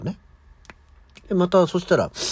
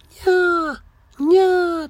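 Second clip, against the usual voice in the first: drawn-out, much higher mewing; cute cat meow; 5 dB louder, much slower than usual. Retold or imitated. Host imitating a pitiful cat meowing at night, high drawn-out mew. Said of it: "かわいそげな猫のニャーニャー".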